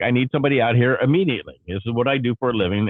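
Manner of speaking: fast, insistent demand; angry demand. Retold or imitated. Caller pressing the call center agent, fast and insistent. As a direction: push hard, you want someone out now. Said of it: "I'm, I'm livid".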